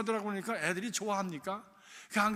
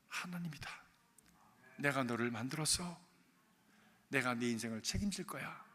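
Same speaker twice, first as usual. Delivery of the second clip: soft, lower, hushed reassurance; gentle voice of God; 6 semitones lower, 6 dB quieter than usual. Retold or imitated. God tenderly comforts the weeping boy in his heart, hushed. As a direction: soothe a crying child from within.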